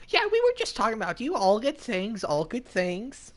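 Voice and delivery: high, hurried start slowing into a reassurance; overbright cover-up. Pretend. Streamer pretending to the hunter it was all praise, high-pitched cover-up.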